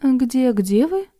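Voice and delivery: удивлённо, громче; surprised interruption. Acted. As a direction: cut in, startled. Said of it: "удивлённо перебила".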